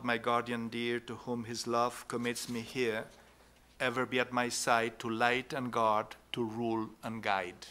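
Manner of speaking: softly recited prayer; prayer recitation. A narrator's reading. Lecturer recites a medieval guardian angel prayer, prayerful recitation. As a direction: recite it evenly, a touch low and soft.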